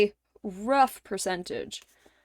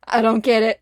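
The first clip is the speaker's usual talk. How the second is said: panicked outburst; 8 dB louder than usual. Retold or imitated.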